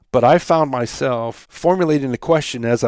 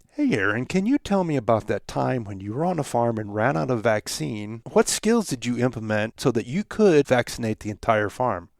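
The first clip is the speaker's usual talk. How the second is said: even, steady, softer question with breath to spare; better pacing; 4 dB quieter than usual. Shown as a demonstration. Host asks the podcast guest a paced question, even and steady. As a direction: keep an even volume right to the end. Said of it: "What I'm trying to do".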